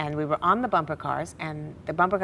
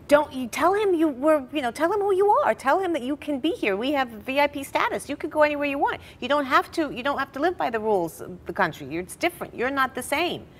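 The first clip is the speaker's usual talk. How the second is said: put-on teenage screaming; 9 semitones higher than usual. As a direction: beg her to stand up for herself, voice up high. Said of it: "screaming like a, you know, a typical teenager".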